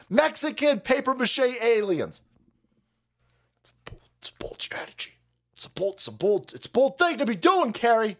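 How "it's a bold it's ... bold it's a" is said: unvoiced, much softer whisper; whispered catchphrase. Host mocking a bold strategy, sly whisper.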